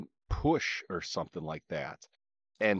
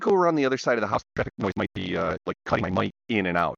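crackly connection; 4 dB louder than usual. Real, not acted. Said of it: "like, you're crackly".

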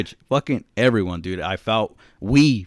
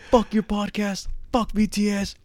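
high mock-angry friend, playful; mock angry brother; 11 semitones higher than usual. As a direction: fake fury at a buddy for laughs. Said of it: "It's like".

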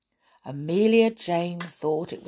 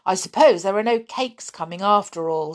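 fierce; 4 dB louder, faster than usual. Acted. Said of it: "said the clown fiercely".

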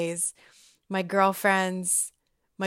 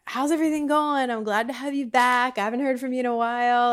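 higher-pitched, welcoming coworker voice; friendly greeting; 4 semitones higher, faster than usual. Retold or imitated. Coworker welcoming her back to work, friendly and higher. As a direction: greet a returning colleague in a lifted voice.

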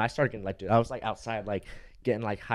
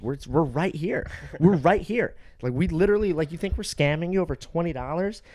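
retold indignant protest, pitched high; 6 semitones higher than usual. Guest retells arguing with clerk over the deposit, indignant. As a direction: protest in higher, rising disbelief.

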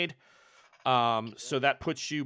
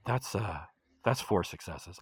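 booming voice from sky; 8 semitones lower, 4 dB quieter than usual. Acted. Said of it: "a voice from the heavens".

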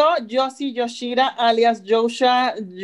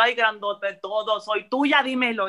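slow, laughing mock swoon; laughing flirt; 3 semitones lower than usual. Fan swooning and laughing at Chayanne's compliment. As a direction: swoon at him while laughing.

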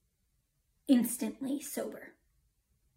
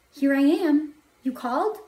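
raised, eager answer ending in a question; Samuel; 4 semitones higher, 6 dB louder than usual. A narrator's reading. Boy running to his master, eager answer. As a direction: report for duty, expectant.

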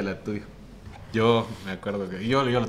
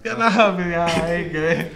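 a higher-pitched mock crushed reply; mock defeated; 6 semitones higher, slower than usual. Friend replays his own reaction to her text. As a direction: act out giving up. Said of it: "Y yo dije".

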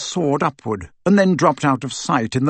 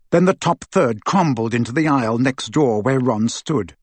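plain reading voice

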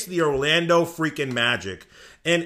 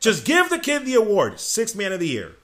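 much higher, louder hype shout; excited fan shout; 7 semitones higher, 5 dB louder than usual. Real, not acted. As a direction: demand the award at full volume. Fan hyping his player.

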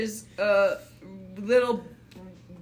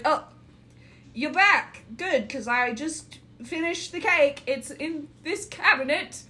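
baker voice; 5 semitones higher than usual. Acted.

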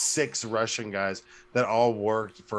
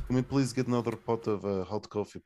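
quick, deadpan Russian coffee order; 4 dB quieter than usual. Retold or imitated. Russian regular asking waiter for coffee, deadpan accent. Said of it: "super dead and just really deadpan".

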